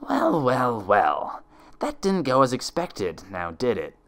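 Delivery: a hint of smug mockery; lightly voiced gloating impostor; disdainful taunt. Impostor mocking fallen Twilight, mildly smug. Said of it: "tooted disdainfully".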